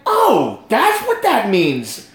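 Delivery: drawn-out "oh" of understanding; mock dawning comprehension; sudden realization. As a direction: act out the penny dropping, slowly.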